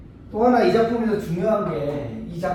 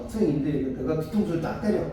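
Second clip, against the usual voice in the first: ordinary delivery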